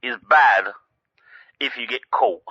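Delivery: crime, barked out loud and high; loud pronouncement. Acted. Caller opening his speech on crime, declaimed loudly. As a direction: announce it like a grand verdict.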